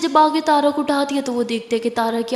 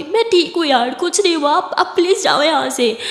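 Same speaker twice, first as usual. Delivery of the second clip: tearful; 3 semitones higher, 3 dB louder than usual. Acted. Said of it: "तारा अभी भी रो रही होती है".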